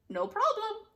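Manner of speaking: high, loud chirpy witch. Acted. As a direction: toss it off like a smug hag. Witch answers again.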